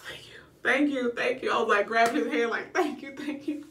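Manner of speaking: hushed grateful thank you; breathy relieved thanks. Retold or imitated. Mother in labour thanking the anesthesiologist, hushed relieved thanks. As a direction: whisper thanks, overwhelmed with relief. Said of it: "I was just like".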